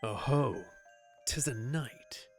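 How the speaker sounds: gravelly knight villain voice. Acted. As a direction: growl it like a menacing swordsman. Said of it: "Gravelly voice got me".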